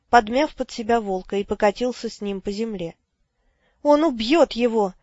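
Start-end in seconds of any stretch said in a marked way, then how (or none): 3.8-4.9 breathless. Acted. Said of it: "задыхаясь".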